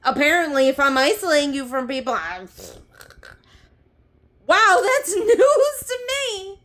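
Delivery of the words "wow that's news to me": high, loud, slow laughing sarcasm; wow, laughing high and slow; sarcastic laugh. Real, not acted. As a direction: laugh it off in disbelief.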